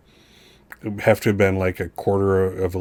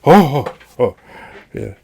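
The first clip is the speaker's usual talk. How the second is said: flustered stammering apology; 5 dB louder, faster than usual. Acted. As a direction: stumble over every I in panic.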